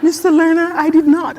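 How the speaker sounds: laughing through a flustered denial. Retold or imitated. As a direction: laugh while protesting no, no. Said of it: "And I said".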